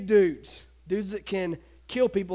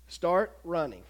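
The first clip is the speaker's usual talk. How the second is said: calm command; 4 semitones lower, 4 dB quieter, slower than usual. Acted. Spirit's command, retold.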